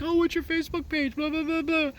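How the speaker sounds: high, fast mock-girly chatter; hammed-up imitation of the chirpy acquaintance; a mock-sweet "what's your Facebook" voice; mocking girly quote. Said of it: "She's like".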